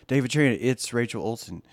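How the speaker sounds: usual speaking voice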